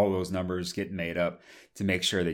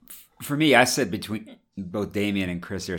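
talking through hiccups; speech broken by hiccups. Real, not acted. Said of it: "sorry, I have the hiccups".

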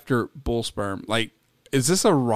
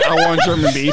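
laughing mock request; 5 dB louder, faster than usual. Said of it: "gone to Pornhub and said".

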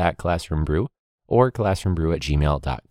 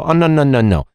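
louder, high-pitched no no no; loud refusal; 7 semitones higher, 6 dB louder than usual. Retold or imitated. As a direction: shut him down, rising in pitch. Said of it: "I go".

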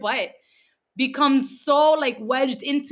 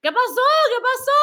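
high, retold puzzled question; high-pitched "what happened?" disbelief; bewildered; 13 semitones higher, 4 dB louder than usual. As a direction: imitate a baffled, urgent asking. Retold bewildered reaction to laughter.

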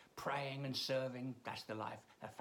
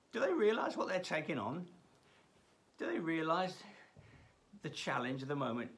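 a hint of a higher, louder mocking governor; belittling enemy; 4 semitones higher, 3 dB louder than usual. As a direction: sneer at the people building the wall. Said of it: "he's belittling the".

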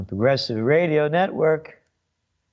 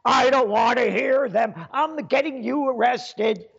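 higher whiny mock liberal; scared and angry; 4 semitones higher than usual. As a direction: sneer it like a frightened snitch. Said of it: "mocking Woodstock liberal".

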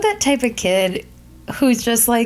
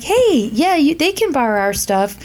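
lightly imitated kid, higher on the greeting; friendly big kid; 6 semitones higher than usual. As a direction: imitate an eager kid offering to share. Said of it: "he was a really big kid".

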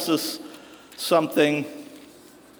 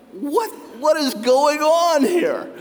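incredulous disciples; 6 semitones higher, slower than usual. Retold or imitated. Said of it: "And they're like".

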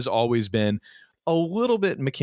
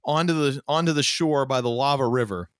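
ordinary talk

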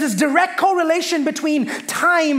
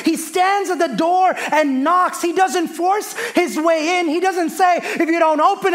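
preaching; 3 semitones higher than usual. Real, not acted. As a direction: build the point with fervour. Preaches at full force.

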